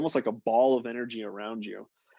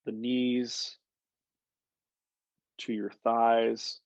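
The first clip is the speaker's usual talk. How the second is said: unhurried, conversational guided visualization; guided meditation. Real, not acted. Coach leading a group grounding visualization on a call, guided meditation. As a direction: talk them through the imagery step by step, with pauses.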